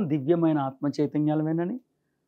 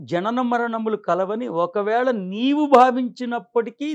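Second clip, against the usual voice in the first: slow, drawn-out scripture reading; declaimed translation of a sacred verse; formal verse recitation; 4 semitones higher, slower than usual. Acted. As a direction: recite the verse with measured, raised delivery.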